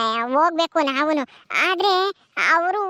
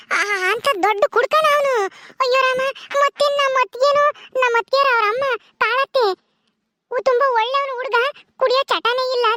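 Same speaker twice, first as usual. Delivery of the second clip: much higher voice, dismayed; shocked young bride; 8 semitones higher than usual. Acted. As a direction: cry out in dismay, pitched way up.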